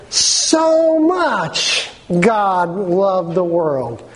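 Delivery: moved. Acted. Preacher quoting the Bible, moved.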